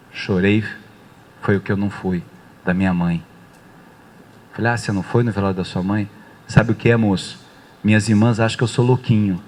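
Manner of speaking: low, subdued, with halting pauses; retold tearful confession. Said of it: "começou a chorar". (tristeza contida, imitando quem acabou de chorar)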